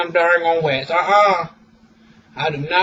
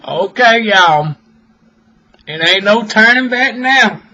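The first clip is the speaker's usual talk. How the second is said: bracing herself; 3 semitones higher, 5 dB louder than usual. Real, not acted. Bracing to rip the wax.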